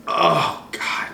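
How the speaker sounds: pained groan. Real, not acted. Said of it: "I'm so sore".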